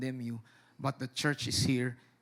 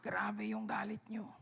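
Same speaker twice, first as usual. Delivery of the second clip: hushed whispered aside; 5 semitones higher, 11 dB quieter, slower than usual. Acted. Moses whispers to God about his anger. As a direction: breathe it like a timid confession. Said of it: "Sabi ni Moises".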